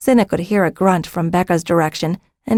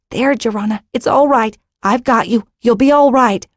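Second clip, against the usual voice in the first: higher-pitched soothing reassurance; more quietly, reassuring; 5 semitones higher than usual. A narrator's reading. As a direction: comfort a frightened child, without shouting. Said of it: "More quietly".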